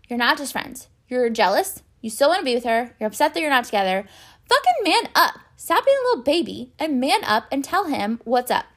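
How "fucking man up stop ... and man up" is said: fed-up shout at a spineless character; exasperated outburst. Real, not acted. Fed-up viewer yelling at Gabriel on screen, exasperated outburst.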